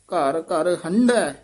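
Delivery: ਹੰਢੈ said with the retroflex ਢ sound. Shown as a demonstration. Teacher showing students ਹੰਢੈ with a proper ਢ. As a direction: curl the tongue for the ਢ of ਹੰਢੈ. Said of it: "ਢੱਡੇ ਨਾਲ ਉਚਾਰਨ ਕਰਨਾ".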